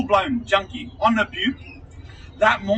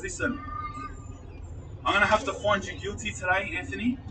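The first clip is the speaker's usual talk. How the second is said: much softer, gentle judge delivering bad news; quiet judge's verdict; 6 dB quieter than usual. Judge telling Anthony the verdict, soft and quiet. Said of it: "she looked at me and she goes".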